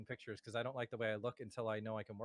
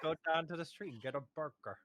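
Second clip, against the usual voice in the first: hammed-up American accent, slightly raised; mock American accent; 3 semitones higher than usual. Shown as a demonstration. Host demonstrating for a friend, playful American accent. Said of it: "hit your American accent".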